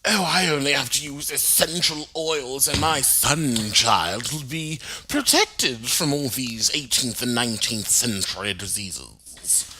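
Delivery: slow, drawn-out mock voice of an essential-oil parent; lightly lampoon a crunchy mom. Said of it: "these crunchy-ass parents going".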